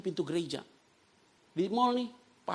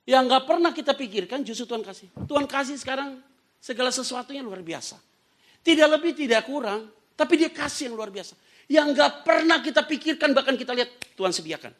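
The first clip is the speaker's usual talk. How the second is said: high, loud proclamation; impassioned preaching; 8 semitones higher, 7 dB louder than usual. Real, not acted. Preacher declaring God's unexpected provision, impassioned. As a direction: proclaim it forcefully to the congregation.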